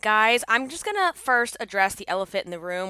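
ordinary delivery

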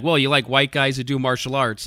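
usual speaking voice

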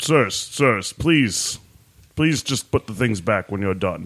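big, noble character voice. A pepper man addresses the men searching through the house, large green pepper noble voice. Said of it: "I'm green and large. / I'm green and large. Mm-hmm. That's good because the greens are like the nobles of the peppers. So jovial pepper man. Yeah. All right. I'm a little dirty. And I've got some spro".

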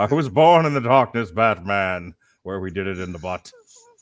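terrible, badly done villain voice. Riffing on a joke with a co-speaker: terrible Bane impression. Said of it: "It's my but terrible Bane".

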